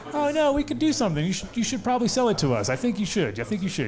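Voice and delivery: high, fast wheedling voice, pitched well up; mock pushy buyers. Russian buyers pressuring the inventor to sell, high mock wheedling voice. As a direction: lean on him to sell, sweetly menacing. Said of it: "Russian guys".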